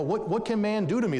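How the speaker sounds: triumphant pulpit cry; defiant preaching. Shown as a demonstration. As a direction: fling the question out defiantly. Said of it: "But then he says".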